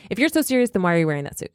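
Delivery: put-on clipped German-accented rebuke. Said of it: "That's what he said".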